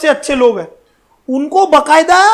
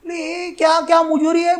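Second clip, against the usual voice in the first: hushed retold retort; 3 semitones higher, 6 dB quieter than usual. Retold reply to the envoy.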